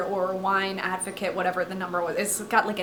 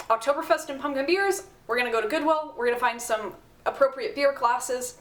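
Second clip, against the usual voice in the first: worked up; 3 semitones higher than usual. Real, not acted. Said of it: "You can tell I'm getting worked up".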